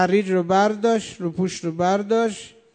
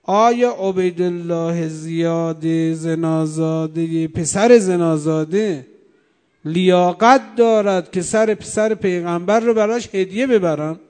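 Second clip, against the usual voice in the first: retold outcry; 4 dB louder than usual. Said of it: "بعد فریاد زد".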